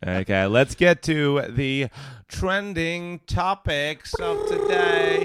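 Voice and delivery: high, slow, drawn-out show intro; segment announcer. Pretend. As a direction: stretch it out like a hyped-up announcer. Host announces the next segment.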